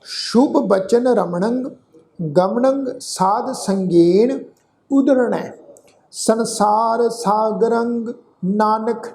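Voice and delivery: slow, drawn-out gurbani chant; slow recitation. Shown as a demonstration. Teacher reciting the whole shlok for the sangat, slow chant. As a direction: lay out every syllable of the shlok slowly. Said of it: "ਇਸ ਦਾ ਪਾਠ ਉਚਾਰਨ ਕਰਾਂਗੇ".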